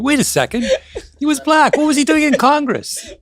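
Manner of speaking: high, astonished disbelief with a laugh; half-laughing, mock-scandalised double take; shocked discovery. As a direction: gasp it out like a stunned historian. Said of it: "historians would have uncovered".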